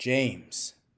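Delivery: stern, very strict voice. Telling a joke, the rich wife orders the butler: very strict voice. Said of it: "very strict voice".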